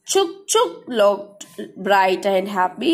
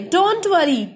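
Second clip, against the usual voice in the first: lovingly; slower than usual. Acted. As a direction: soothe the little train gently. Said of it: "सभी toys बहुत प्यार से बोले".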